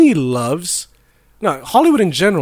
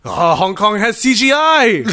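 mock hype; 4 semitones higher than usual. Mimicking hype about the movie.

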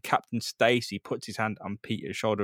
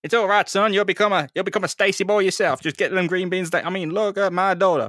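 booming proud father; 8 semitones higher, 6 dB louder than usual. Acted. Captain Stacy booming proudly.

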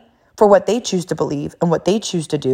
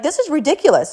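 higher-pitched mock indignation; upset parent; 7 semitones higher than usual. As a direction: imitate an upset parent protesting. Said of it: "So she's, she's upset".

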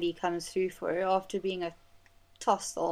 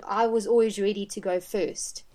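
retold cry; 5 dB louder than usual. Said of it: "that's what Malin says".

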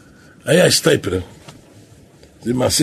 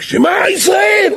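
calling out. Retold or imitated. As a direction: cry it out across the hall. Rabbi calling out in monastery. (קריאה רמה וגבוהה)

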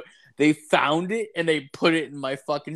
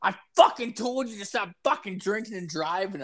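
mock nagging girlfriend, pitched up; scolding girlfriend; 7 semitones higher than usual. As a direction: imitate a girlfriend telling him off, a bit higher. Girlfriend scolding him, quoted.

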